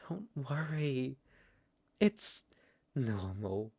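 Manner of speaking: a hushed, falsely reassuring whisper; whispered mock comfort. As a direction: breathe it close to her ear. Villain reassures captive.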